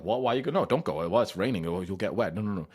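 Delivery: high, loud fussing mum; mock panicked parent scolding; worried parent. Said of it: "they'll be like".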